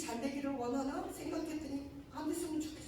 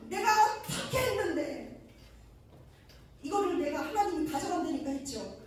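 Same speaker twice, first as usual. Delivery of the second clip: indignant protest; 2 semitones higher, 4 dB louder than usual. Real, not acted. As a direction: cry out what he gave up. Protesting to God.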